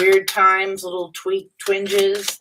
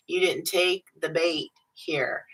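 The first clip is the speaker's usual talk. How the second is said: mock whisper; 5 dB quieter than usual. Tarot reader voicing a tempter to the viewer, whispered. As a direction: whisper it, unvoiced, like a taunting secret.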